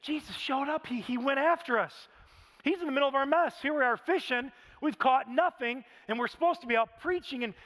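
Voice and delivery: lifted, marvelling retelling; amazed inner voice. Retold or imitated. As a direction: replay the moment in awe. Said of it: "He's thinking".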